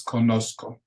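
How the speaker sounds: "conozco" with the Z as a plain S. Shown as a demonstration. Teacher showing students the Spanish Z, "conozco" with an S sound. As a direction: say "conozco" with no buzzing Z. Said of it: "does not have a hard Z sound".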